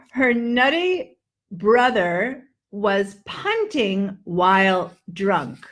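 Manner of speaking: slow careful short U sentence; slow drill. Shown as a demonstration. Teacher drills short U sounds slowly. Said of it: "That's it for the U sound".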